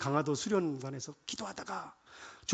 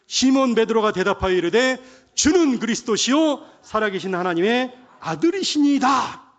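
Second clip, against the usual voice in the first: loud, higher, emphatic confession; congregational scripture declaration; 4 semitones higher, 10 dB louder than usual. Real, not acted. Preacher leading the congregation in Peter's confession, proclaiming loudly. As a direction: proclaim the verse at full voice. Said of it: "여러분의 고백이기를 원합니다. 시작".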